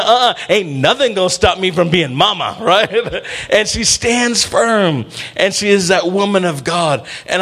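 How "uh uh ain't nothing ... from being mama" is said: put-on Chicano accent. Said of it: "I'm gonna do it in my, in my Chicano voice".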